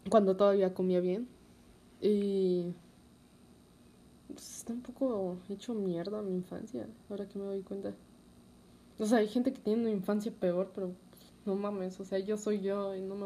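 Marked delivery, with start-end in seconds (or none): 4.3-7.9 whispering. Real, not acted. Quiet admission about childhood.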